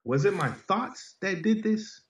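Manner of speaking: a slow, high, hushed inner question, full of self-doubt; anxious inner voice. Retold or imitated. New father in the hospital asking himself, slow and high. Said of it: "inside of me, I'm like".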